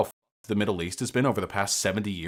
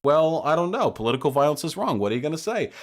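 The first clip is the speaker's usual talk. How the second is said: dismissive shrug; 4 semitones higher than usual. Real, not acted. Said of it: "The inflection in his voice as he says that".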